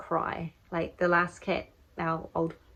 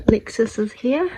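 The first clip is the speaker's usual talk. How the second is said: hushed whisper; 4 semitones higher, 10 dB louder than usual. Real, not acted. Announcing a helper, whispering beside the cat. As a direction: whisper it so the cat stays calm.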